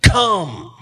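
single drawn-out, beckoning word; tender, emphatic call. Acted. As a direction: beckon gently but firmly. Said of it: "so tenderly and emphatically saying".

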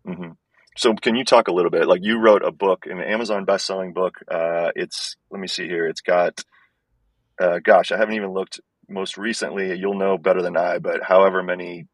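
thin, tinny earbud-mic sound; like talking in a tin can. Real, not acted. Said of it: "It sounds like I'm talking in a tin can".

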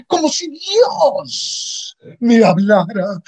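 slow, dreamy and reverent; as if hearing a divine voice, slowly; awed whisper of wonder. Acted. Dreamy awe at hearing God.

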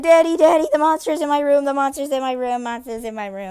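loud, high panicked cry fading back down; panicked yelling. Retold or imitated. Boy bursting into his dad's room, panicked yelling fading. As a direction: yell for Daddy then calm as you repeat. Kid runs screaming to dad.

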